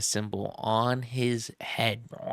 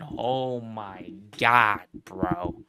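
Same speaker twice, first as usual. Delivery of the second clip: very slow, drawn-out awe; awed; much slower than usual. Real, not acted. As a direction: let the words stretch in disbelief. Awed reaction to the comic.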